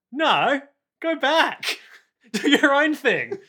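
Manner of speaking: high, slow urging shout; big brother shout. Retold or imitated. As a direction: shout it loud, pushing him away. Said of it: "Keicho's essentially like".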